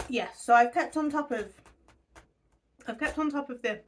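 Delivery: talking through a mouthful of fudge; words around a chewy bite; mouth full. Real, not acted. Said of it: "so much fudge in my mouth".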